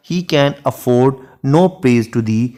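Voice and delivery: lingering over each word of the sonnet; unhurried classroom recitation of Shakespeare; slow poem recitation. Shown as a demonstration. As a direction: read the verse very slowly and evenly. Recites sonnet line in English.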